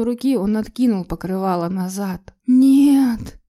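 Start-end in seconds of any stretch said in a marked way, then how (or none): 2.5-3.4 high, loud shriek of horror; piercing wail, louder and higher; inhuman scream. A narrator's reading. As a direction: scream it out of pure terror. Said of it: "заорала я нечеловеческим голосом".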